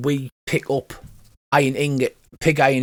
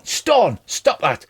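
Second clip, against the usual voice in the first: high-pitched call to a brother, then reprimand; mildly acted telling-off; scolding a brother; 7 semitones higher, much slower than usual. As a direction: pull a jumpy brother into line. Dwarf scolds his brother.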